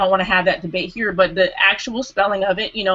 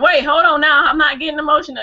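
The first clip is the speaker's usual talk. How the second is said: higher, louder-starting mock protest; imitated protest; 6 semitones higher, 4 dB louder than usual. Retelling the woman denying she got emotional, higher imitated protest. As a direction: push back as the woman did, pitched up. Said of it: "And she's like".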